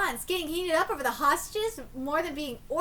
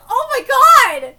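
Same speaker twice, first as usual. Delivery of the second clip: slow, much louder oh my god; shocked exclamation; 5 semitones higher, 15 dB louder, slower than usual. Real, not acted. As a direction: gasp it out in disbelief. Reacting in shock.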